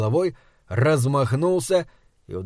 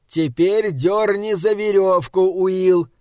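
slow, higher, drawn-out shout; calling out; 6 semitones higher, 3 dB louder, slower than usual. A narrator's reading. Kearns orders Will to pull the rope, calling out. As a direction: call a command across a distance. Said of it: "крикнул он".

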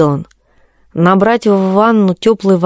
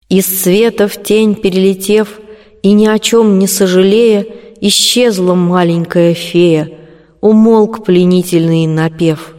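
poem recitation. A narrator's reading. Colombina tries out her farewell poem, measured recitation.

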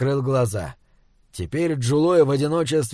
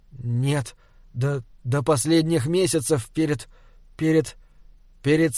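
hesitant answer with broken pauses; faltering. A narrator's reading. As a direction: falter and repeat words, unable to finish. Faltering answer under a stern gaze. (сбивчиво, с запинками)

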